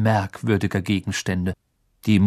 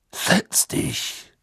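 low whisper. Acted. Moody quietly orders.

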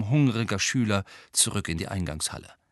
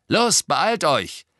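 loud, high command; raised, drawn-out urging call; 8 semitones higher, 7 dB louder, much slower than usual. Acted. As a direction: call it out to hurry them along. Twin urges friends to hurry.

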